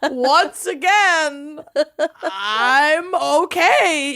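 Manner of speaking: slow words broken by laughter; laughing while talking. Real, not acted. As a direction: laugh through it. Laughing about bee stings.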